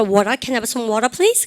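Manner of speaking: slow American request for water; American flapped water. Shown as a demonstration. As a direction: ask slowly, American flap in water. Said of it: "트 발음을 르로 다 합니다".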